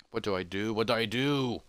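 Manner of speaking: worried self-talk. Acted. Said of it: "walks back and forth in worry".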